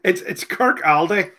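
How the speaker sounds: slow "Kirkaldy" with the l sounded; mispronounced place name. Real, not acted. Host retrying the town name slowly, mispronouncing "Kirkaldy" with an l. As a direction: attempt "Kirkaldy" slowly as spelt, kirk-AL-day. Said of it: "I'm not saying it right".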